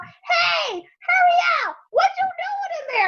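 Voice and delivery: high, loud call to a friend inside. Retold or imitated. Friends honking in the driveway, calling out high and loud. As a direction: yell it up at the house.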